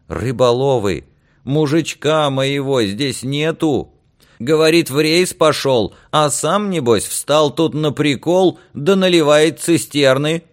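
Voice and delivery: high, loud complaining woman; high-pitched, scornful grievance about a husband; brash fishwife, indignant. Acted. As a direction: harangue the men from the doorway. Angry wife complains from the doorway.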